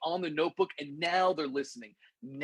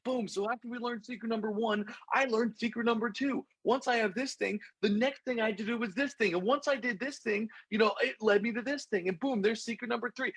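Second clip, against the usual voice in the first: droning lecture; 7 semitones higher than usual. Retold or imitated. Russell's dull lecture continues.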